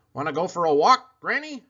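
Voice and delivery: high, loud dog voice; a cheeky dog pleading for a walk; dog talking. Acted.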